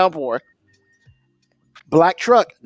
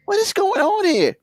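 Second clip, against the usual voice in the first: exasperated; 13 semitones higher than usual. Retold or imitated. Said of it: "And I'm just like".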